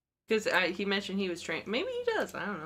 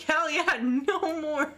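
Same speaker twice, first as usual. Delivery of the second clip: laughing; 9 semitones higher, slower than usual. Retold or imitated. Celebrating deleting the dating app.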